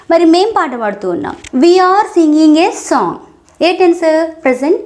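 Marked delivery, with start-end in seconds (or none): 1.6-3.1 each word slowly and separately for learners; deliberate teacher pacing; slow model sentence. Shown as a demonstration. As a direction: spell it out slowly for the class. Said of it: "teacher models the sentence".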